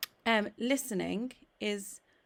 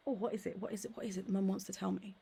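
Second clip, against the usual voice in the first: 1 curious surprise; 5 dB quieter, faster than usual. Retold or imitated. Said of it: "kind of like surprise".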